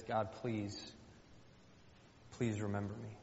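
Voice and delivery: soft, hushed pleading prayer; wit's-end plea. Acted. Hannah praying at her wit's end, softly pleading. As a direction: beg quietly, with a long pause. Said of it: "she's at her wit's end".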